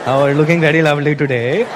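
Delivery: low come-on voice; smooth-talking suitor. Acted. Indian man trying to pick up women, low flirting voice. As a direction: drop low to chat up a woman. Acting men hitting on women.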